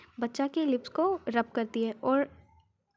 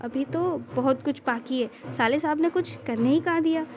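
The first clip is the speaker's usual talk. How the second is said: put-on childish whine; 2 semitones higher, 4 dB louder than usual. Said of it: "Shri बच्चों सा face बनाकर".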